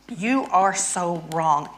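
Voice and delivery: drawn out, slow and heavy; slow mock scolding. Shown as a demonstration. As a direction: lean on every word, slowly. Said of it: "so I'm angry at my husband".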